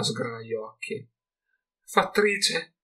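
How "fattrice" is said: high, bewildered echo of the word; puzzled question. A narrator's reading. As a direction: repeat the strange word in confusion.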